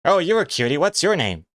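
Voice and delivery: squeaky woman cooing at a pet; sweet falsetto lady asking a name. Pretend. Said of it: "Let's hear your lady voice".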